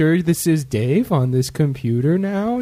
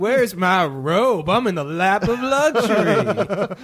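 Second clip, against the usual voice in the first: pampered luxury voice; 3 semitones higher than usual. Pretend. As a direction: play the spoiled hotel guest. Pretend luxury hotel guest.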